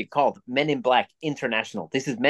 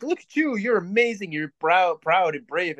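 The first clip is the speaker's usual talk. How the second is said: mock praise; 4 semitones higher than usual. Mocking people who praise each other.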